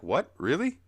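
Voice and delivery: hammed-up disbelief; mock surprise. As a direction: gasp it out, caught off guard. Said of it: "And Snorpy's like".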